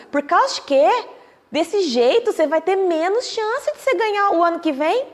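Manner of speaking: a curious stranger questioning the winner, incredulous; puzzled challenge. Retold or imitated. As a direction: press him on why he gives the corn away. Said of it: "chegou uma pessoa e falou assim".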